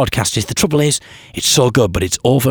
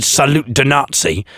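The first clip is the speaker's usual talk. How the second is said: mock French; slower than usual. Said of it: "So when I said".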